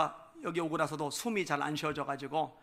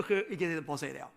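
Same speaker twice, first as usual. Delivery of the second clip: ordinary talk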